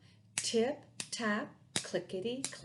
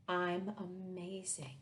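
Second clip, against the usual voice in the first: whisper; 2 semitones lower, 6 dB quieter than usual. Shown as a demonstration. Book line whispered slowly.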